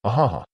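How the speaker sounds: a quick pleased chuckle; light laugh. A narrator's reading. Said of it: "she smiled and laughed".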